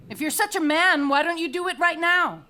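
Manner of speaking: loud, rising challenge; furious taunt at the king; defiant taunt. Acted. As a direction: dare him to his face.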